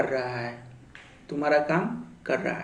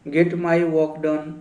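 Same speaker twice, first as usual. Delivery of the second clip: very slow, word by word, a little louder; slow model sentence; 4 dB louder, much slower than usual. Shown as a demonstration. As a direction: spell it out slowly for the class. Teacher models English sentence. (धीरे-धीरे, हर शब्द अलग)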